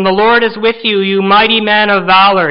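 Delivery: lightly voiced angel proclaiming; a hint of a heavenly messenger hailing Gideon; angel's greeting. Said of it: "the angel of the lord appears to him and says".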